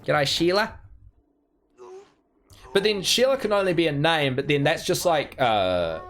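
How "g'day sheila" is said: put-on Australian accent. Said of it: "bogan Australian name".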